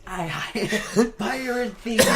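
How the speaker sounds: high, loud joking pirate cry; mock pirate yell. Friend mocking the story of yelling pirate things, mock pirate yell. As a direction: call it out like a pirate, laughing. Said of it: "I started yelling pirate things".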